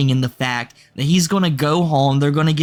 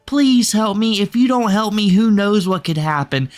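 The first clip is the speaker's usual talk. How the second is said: mock pleading Andrew; 5 semitones higher than usual. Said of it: "and he's like".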